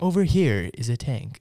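war documentary tour guide narrator voice. Playing along after being told they sound like a war narrator: war tour guide voice.

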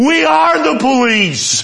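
very high, very loud, drawn-out, fed-up exasperated yell. Retelling a TV scene, Barney shouting back at the other character: Barney's exasperated shout. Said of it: "exasperated, shouts back".

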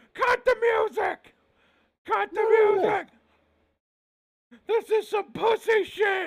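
shrill, loud shouting pitched way up. Retelling a wrestling segment at the ramp, the speaker does a Paul Heyman impression, shouting. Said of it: "so he just starts shouting".

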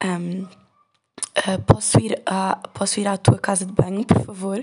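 smooth, husky, hoarse, very slow drawn-out voice. Retelling how they spoke to a girl who didn't know them: speaking very slowly. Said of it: "Então eu estava a falar assim".

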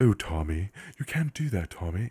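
soft put-on woman's voice. Retelling a story, the speaker mimics the voice that keeps talking, imitating a woman's voice. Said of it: "it's like it's a woman's voice".

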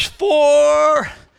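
loud, hollered voice.

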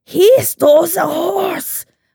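put-on sickly child's Russian accent, very high. Telling a story about him as a very sickly kid, do a young Rasputin voice. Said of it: "that sounded more German".

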